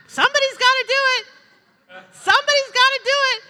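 a high, loud, fast frantic housewife; hammed-up panic over who will cook; fussing Martha. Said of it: "How many have said that?".

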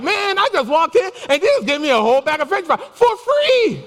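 high-pitched, amazed retelling; excited news. Retold or imitated. Texting the pastor about free fries, excited and high. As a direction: build to a high, thrilled last word.

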